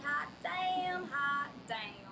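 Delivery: drawn-out sassy New York street exclamation; New York street accent. Shown as a demonstration. Acting out her street-accent reaction.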